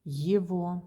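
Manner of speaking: его with v in place of g; г pronounced as в. Shown as a demonstration. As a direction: say его as "yevo". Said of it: "We say".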